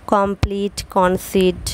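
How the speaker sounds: কমপ্লিট and কনসিড ending on a long 'ee'; long ee sound. Shown as a demonstration. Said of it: "ই উচ্চারণ হয়". (কমপ্লিট কনসিড-এ লম্বা ই)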